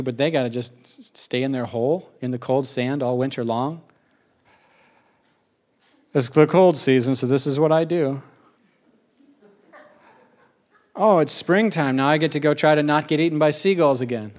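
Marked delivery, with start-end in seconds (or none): 6.1-14.3 lightly voiced little crab, a touch odd; ghost crab voice. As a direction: play the crab talking about its own life.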